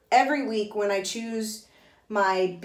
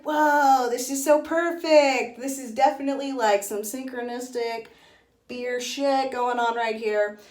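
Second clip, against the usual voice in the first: excited; 3 semitones higher than usual. Retold or imitated. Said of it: "So I was like".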